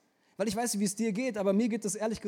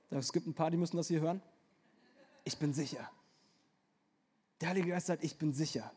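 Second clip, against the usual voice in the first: much softer, lower, intimate; sudden soft aside; 4 semitones lower, 6 dB quieter than usual. Acted. Preacher speaking tenderly to struggling listeners, soft and low. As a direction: drop to a near hush for those who need it.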